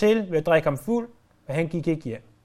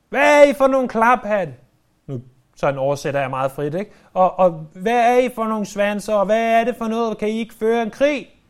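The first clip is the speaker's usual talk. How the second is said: raised, indignant scolding of the soldiers; angry scolding; 3 semitones higher than usual. Acted. Messenger berating David's soldiers after the lost battle, angry. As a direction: bark at them like a furious messenger.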